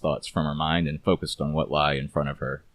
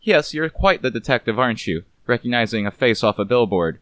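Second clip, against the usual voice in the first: higher, sardonic femme fatale; sharp, mocking movie star voice; Vivian, mocking; 6 semitones higher, 4 dB louder than usual. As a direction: scoff at the detective coolly.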